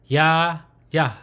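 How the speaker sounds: "ya" drawn out open, "yah" closed off; teacher modelling open then closed "ya"; consonant demonstration. Shown as a demonstration. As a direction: sound out "ya, yah" clearly. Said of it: "the consonant is pronounced ya".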